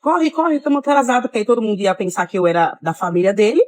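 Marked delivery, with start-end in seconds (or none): 0.0-1.2 retold shout.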